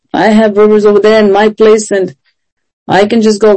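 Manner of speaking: lightly voiced sulky complaint from an offended man; a touch of pouting grievance, not shouted; upset Naaman, retold. Preacher voicing offended Naaman refusing the river, mildly sulky. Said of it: "He was all upset".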